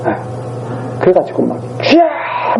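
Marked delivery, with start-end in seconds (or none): 1.8-2.6 long drawn-out imitated wail to God; mock prayer cry. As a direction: parody a congregation crying out "Lord!". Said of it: "뭐 그런 거 있잖아요".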